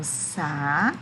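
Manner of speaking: slow, split sa... fa... ri; syllable by syllable. Shown as a demonstration. Teacher showing pupils how safari splits, syllable by syllable. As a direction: break safari into three separate beats.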